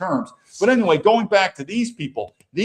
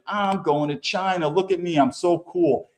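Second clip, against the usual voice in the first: lightly mocking smug excitement. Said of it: "She is just absolutely excited".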